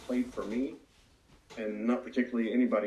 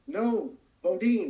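high, slow, louder desperate call; retold scream; 10 semitones higher, 6 dB louder, much slower than usual. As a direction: drag the name out in a scream. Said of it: "he was screaming".

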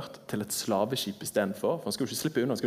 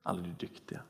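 dropping to a whisper; 5 semitones lower, 10 dB quieter than usual. Acted. List fades to hush.

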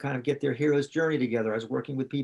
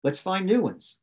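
higher, eager, pushy inner voice; a light take on scrambling for clients; mock scarcity panic; 5 semitones higher than usual. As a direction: imitate your own frantic urge to sell. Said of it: "I did the scarcity energy".

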